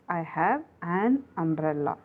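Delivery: "an" said with a clear n before umbrella; correct article. Shown as a demonstration. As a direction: sound the n in "an" umbrella. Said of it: "The correct one is".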